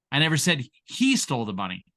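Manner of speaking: he given the weight; he stressed, as if it was someone else. Shown as a demonstration. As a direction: point at the word he. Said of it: "Say the same exact thing six different ways".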